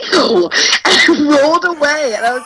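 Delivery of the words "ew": disgusted ew. Retold or imitated. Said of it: "threw him the dirtiest look and was like".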